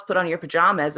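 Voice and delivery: put-on half-hearted yell to the kids; mild mock yell. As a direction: lightly imitate a parent calling out an order. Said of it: "instead of just yelling across the house".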